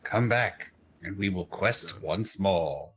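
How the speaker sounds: slow solemn mock oracle; mock prophet voice. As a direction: intone it like a parody prophet. Parodies the seer's line.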